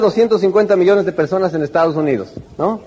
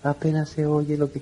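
mumbled and much softer, hard to hear; barely audible; 4 semitones lower, 9 dB quieter than usual. Shown as a demonstration. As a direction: mumble it like you have no energy. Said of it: "La persona que no está entusiasmada". (murmurando casi sin que se oiga)

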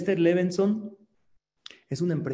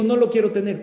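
mock loud protest; 4 semitones higher, 6 dB louder, faster than usual. Shown as a demonstration. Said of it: "Y digo".

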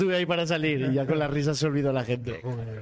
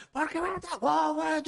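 mock Mexican accent; 12 semitones higher than usual. Retelling a parliament row, imitating an MP in a Mexican accent. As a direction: ham up a Mexican accent while quoting the MP. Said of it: "gritándose".

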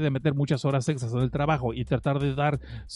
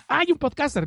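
mock shock; 9 semitones higher than usual. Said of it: "joke gasp".

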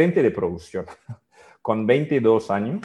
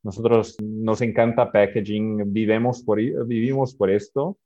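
Portuguese accent. Real, not acted. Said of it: "perdona mi español".

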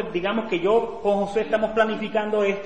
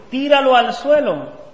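higher, loud, drawn-out order; loud command; 6 semitones higher, 10 dB louder than usual. Acted. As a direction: read out God's order forcefully and slowly. Reading God's command to Moses.

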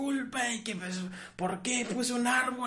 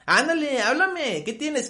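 pressing louder and higher; insistent louder pleading; 6 semitones higher, 6 dB louder than usual. Acted. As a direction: push him to talk, raising the voice. Friend keeps pressing, getting louder. (súplica insistente y más fuerte)

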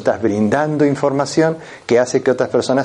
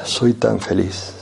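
gloomy, unconvincing; much slower than usual. Shown as a demonstration. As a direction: say you're happy while sounding downcast. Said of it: "¿Es creíble mi mensaje?".

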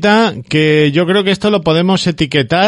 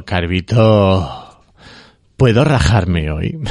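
pleading; 7 semitones lower, much slower than usual. Retold or imitated. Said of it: "Pidiendo permiso".

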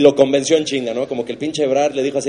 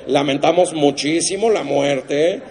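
slow, mock-solemn condolence; mock solemn reporter; much slower than usual. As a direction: drag out a fake somber announcement. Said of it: "un periodista de espectáculos dijo".

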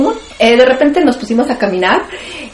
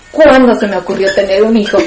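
laughing through the punchline. Retold or imitated. Retelling her own cheeky joke.

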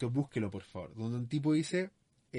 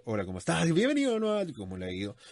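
roller-coaster intonation; 4 semitones higher, faster than usual. Shown as a demonstration. Sales coach mocks an overdone greeting, swinging wildly up and down. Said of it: "como si fuera un tobogán".

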